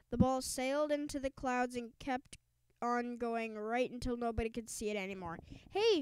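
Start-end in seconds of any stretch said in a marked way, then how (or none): 5.7-6.0 high, loud call; shout. A narrator's reading. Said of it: "shouted a fan".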